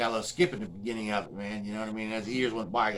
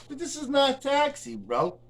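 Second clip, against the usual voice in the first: worked up; 7 dB louder, slower than usual. Real, not acted. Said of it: "I'm getting all worked up".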